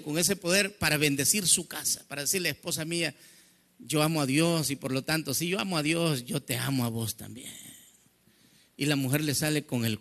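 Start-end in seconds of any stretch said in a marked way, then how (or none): 2.5-7.5 tender husband. Retold or imitated. Husband gently explains to wife.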